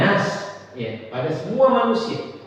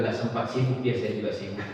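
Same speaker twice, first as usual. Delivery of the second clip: dry deflection; 8 semitones lower, 7 dB quieter than usual. Retold or imitated. Speaker's dry deflecting reply.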